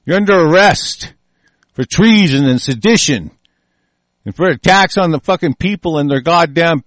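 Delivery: playing the arresting officer in anger; stern mock arrest.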